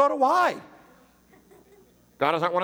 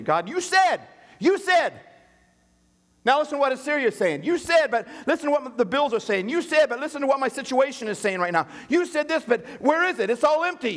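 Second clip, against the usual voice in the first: high, pleading outburst at God; frustrated cry to God, pitched up; angry complaint; 8 semitones higher than usual. Retold or imitated. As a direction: demand an answer, voice climbing.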